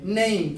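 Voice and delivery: नहीं as "neh-eem", the English word name with a glide; gliding name. Shown as a demonstration. Teacher carrying the A sound over to name, नहीं as a gliding "neh-eem". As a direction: stretch नहीं as name with a sliding vowel. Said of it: "उसी को वहां पर बोलते हैं".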